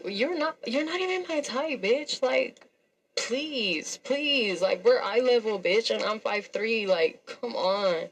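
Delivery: high-pitched, incredulous brush-off; scornful dismissal. Retold or imitated. Woman retelling how she rejected her date, scornful.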